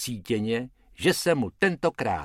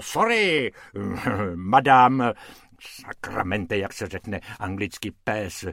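flustered apology; 3 dB louder than usual. Acted. Hrubec fumbles English apology.

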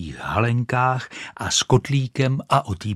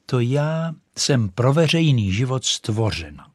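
pompous firework lady; haughty rocket; 3 semitones higher than usual. Acted. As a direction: look down your nose at the duck. Rocket boasts.

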